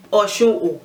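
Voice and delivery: "Oshun, oh" with a separate falling "oh" at the end; emphatic added oh. Shown as a demonstration. Teacher showing how to emphasize a name, added oh. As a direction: add a distinct "oh" after "Oshun". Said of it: "teach you a different way of emphasizing".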